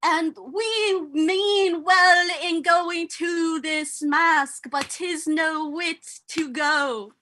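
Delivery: put-on slow, drawn-out, over-posh British accent; attempted British accent. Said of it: "I'm doing an accent".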